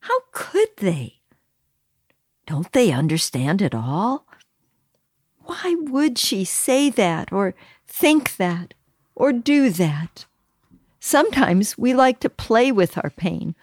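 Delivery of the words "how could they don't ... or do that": hurt inner voice. Retold or imitated. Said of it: "Our reaction is often".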